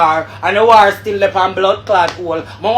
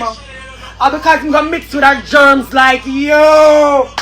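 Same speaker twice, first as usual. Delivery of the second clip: angry shout; 5 semitones higher, slower than usual. Real, not acted. Angry rant at Emily.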